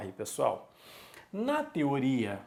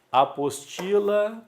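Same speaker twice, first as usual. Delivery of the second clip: APOSTILA slower, TI stretched high and loud; stressed penultimate syllable; 5 semitones higher, 5 dB louder than usual. Shown as a demonstration. Teacher naming things around the room, stress on TI in "apostila". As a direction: punch the TI in "apostila". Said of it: "paroxítona".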